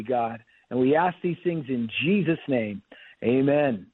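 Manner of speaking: steady, reverent prayer voice; earnest prayer. Acted. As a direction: pastor praying for a sick caller, reverent and earnest. Pastor leads a healing prayer.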